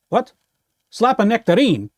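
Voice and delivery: puzzled, rising disbelief; confused question. Pretend. On the phone, baffled by the caller's message. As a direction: repeat the odd words back in confusion. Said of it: "That doesn't make any sense".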